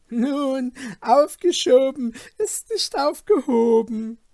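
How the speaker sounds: high, pointed and spiteful; venomous. Acted. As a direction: spit the line up at his brother. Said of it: "mit giftigen Blicken".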